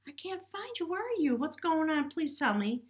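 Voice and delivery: high, pleading plea to a distant partner. Pretend. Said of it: "you asking your partner".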